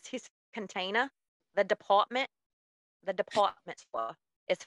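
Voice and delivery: imitated East Coast accent without Rs; non-rhotic East Coast imitation; R-dropping northern accent. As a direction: drop the R in DEPARTMENT, East Coast style. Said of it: "he doesn't pronounce his R's".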